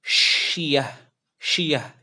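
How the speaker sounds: syiyah said heavy and full; thick syiyah. Shown as a demonstration. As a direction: make syiyah thick and round. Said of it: "dibaca tebal".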